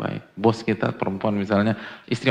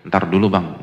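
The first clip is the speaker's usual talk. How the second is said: louder, dismissive put-off; brushing off; 3 semitones lower, 5 dB louder than usual. Retold or imitated. Wife brushing off her husband, louder dismissive tone. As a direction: push the husband away, firmly.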